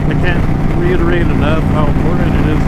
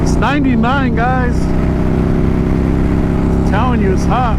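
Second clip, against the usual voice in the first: higher, pained exclamation about heat; exasperated; 7 semitones higher, much slower than usual. Real, not acted. Reading the heat on display.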